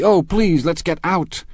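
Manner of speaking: very high, desperate plea; crying out. A narrator's reading. Daisy begs to leave the quarrel, crying out. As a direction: beg urgently to escape. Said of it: "cried Daisy".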